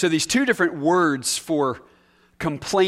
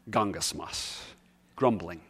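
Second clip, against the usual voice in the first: lower, soft mumble of gungasmos; muttered under breath; 10 semitones lower, 7 dB quieter than usual. Shown as a demonstration. Preacher showing grumbling to oneself, low and soft mutter.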